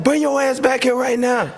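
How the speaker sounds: angry order. Retold or imitated. Teammate orders him back angrily.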